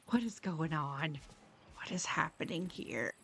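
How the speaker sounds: puzzled whisper to yourself. Real, not acted. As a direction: whisper it under your breath. Confused by broken overlay.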